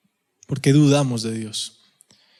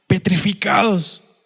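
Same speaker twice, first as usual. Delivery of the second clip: drawn out; 2 semitones higher, slower than usual. Real, not acted. Preacher dramatizes the disciples' frozen fear.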